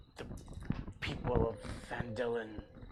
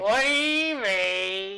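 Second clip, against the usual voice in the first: put-on Yiddish accent; 5 semitones higher, 7 dB louder than usual. Goblin cries out, laughing.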